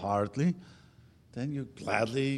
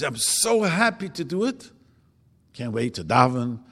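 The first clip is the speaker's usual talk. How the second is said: eager joy; 6 dB louder than usual. Pretend. Eager attitude toward mitzvot.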